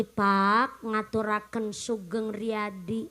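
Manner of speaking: a hint of a dutiful wife reciting to her husband; lightly imitated wife asking her husband's pardon; wife's Eid apology. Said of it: "Minta maafnya ngomongnya begini".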